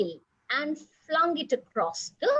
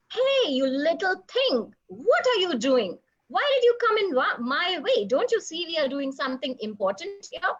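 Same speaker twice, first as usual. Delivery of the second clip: annoyed monkey; 5 semitones higher than usual. Acted. Monkey scolding squirrel.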